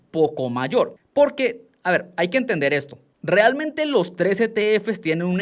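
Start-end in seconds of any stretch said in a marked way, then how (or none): 0.1-0.9 "poco mayor" set apart and said with emphasis; stress on "poco mayor". Real, not acted. Teacher warning viewers the cost difference is small, emphatic "poco mayor". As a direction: lean clearly on "poco mayor". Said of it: "aquí hago énfasis en".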